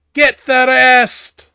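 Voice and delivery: angry, furious dwarven woman's shout. Voicing a character in a scene, a very angry dwarven woman shouting. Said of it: "a very angry dwarven woman shouts".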